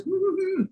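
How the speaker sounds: high imitated dog murmur; contented dog hum. A narrator's reading. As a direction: hum like a dog having its ears scratched. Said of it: "And she goes".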